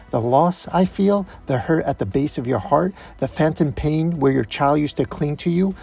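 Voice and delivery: bitter accusation. Acted. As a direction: press the accusation with rising emotion. Ex-wife's bitter grieving accusation.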